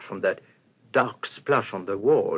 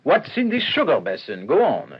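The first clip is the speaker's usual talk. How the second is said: urgent demand; 4 semitones higher, 6 dB louder than usual. Acted. Detective pressing the waiter.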